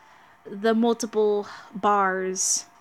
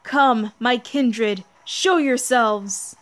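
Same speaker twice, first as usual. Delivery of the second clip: louder, slow commanding call; summoning villain; 5 dB louder, much slower than usual. Acted. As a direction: call out to the hidden kindred.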